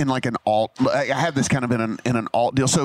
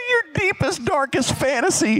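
laughing retelling; 12 semitones higher than usual. Real, not acted. Repeated while laughing.

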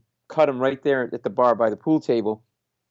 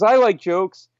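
high, loud declaration; drunk heckler; 7 semitones higher, 6 dB louder, slower than usual. Retold or imitated. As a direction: imitate a drunk suddenly on board. Drunk heckler answers the comic.

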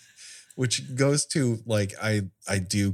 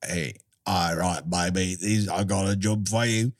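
lightly voiced smooth cat crook, breaking into a laugh; a hint of a sly boss handing out a job; Macavity. Macavity briefing his accomplice, lightly voiced sly crook. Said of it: "how does Macavity, like".

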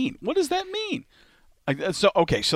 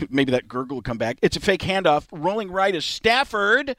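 a light Robert Downey Junior, barely shifted; play-by-play as Robert Downey Junior, only hinted; a faint Robert Downey Junior play-by-play read; Robert Downey Junior impression. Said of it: "let's start it as Robert Downey Junior".

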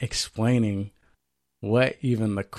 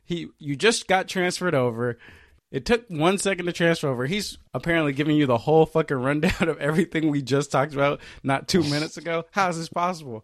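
high-pitched incredulous rant, retold; retold disbelief; 5 semitones higher than usual. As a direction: act out being baffled by the impossible. Retelling his disbelief at the scam.

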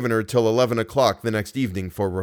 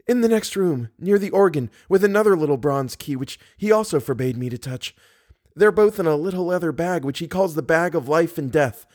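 much higher-pitched heroine voice; Christine, captive young woman; 7 semitones higher than usual. A narrator's reading. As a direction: explain urgently in a high female character voice.

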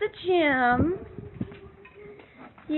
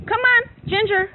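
calling out; 3 dB louder than usual. Real, not acted. Calling cows out of yard.

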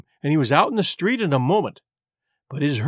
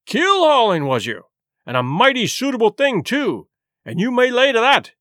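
high exclamation, dropping sharply; scornful echo; 5 semitones higher than usual. Acted. Silver throwing Morgan's answer back, scornful. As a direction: seize on his word with mock approval.

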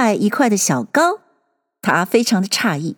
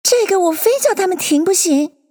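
higher-pitched resolve; lightly voiced determined character; talking to oneself; 9 semitones higher than usual. A narrator's reading. Alice resolving to make them stop, to herself. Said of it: "她对自己说道".

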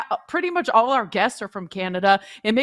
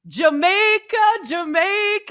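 put-on playful Jamaican accent; 4 semitones higher, 4 dB louder than usual. Playfully performing her Jamaican accent pick.

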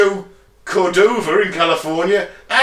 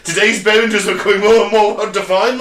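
put-on German accent; 3 semitones higher, 4 dB louder, faster than usual.

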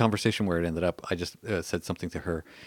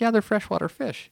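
insistent retelling; 13 semitones higher than usual. Retold or imitated.

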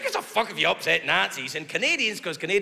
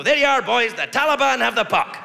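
raised, louder rallying call; mock army send-off; 4 semitones higher, 5 dB louder than usual. Comic as army handing boys hockey sticks, mock rallying call. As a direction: call out to the troops, hammed-up.

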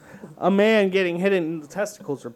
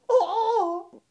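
imitated pained groan; 13 semitones higher than usual. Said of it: "He literally goes".

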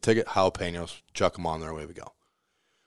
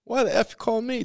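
much higher mock New York rudeness; gruff New Yorker. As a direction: act out an annoyed New Yorker hanging up on you. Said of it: "every New Yorker stereotype".

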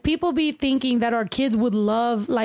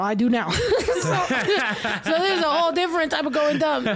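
chuckling through the words; laughing; 3 semitones higher than usual. Real, not acted. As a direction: laugh while you say it. Laughing at himself.

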